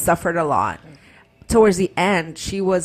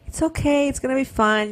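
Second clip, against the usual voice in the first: breezy midwife; 8 semitones higher than usual. Retold or imitated. Imitating breezy midwife reassurance.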